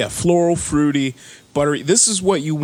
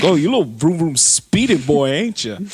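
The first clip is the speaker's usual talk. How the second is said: mock taunt; 2 semitones higher than usual. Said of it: "You're like".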